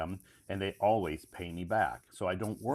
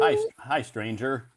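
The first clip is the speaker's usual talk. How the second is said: excited greeting; 6 semitones higher, 8 dB louder than usual. Real, not acted. Host greets returning friend.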